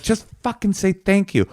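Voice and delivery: high-pitched exasperated rant; retold rage. Driver who let someone in without thanks, exasperated retold rage. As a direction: push it up high in comic indignation. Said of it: "filled with rage".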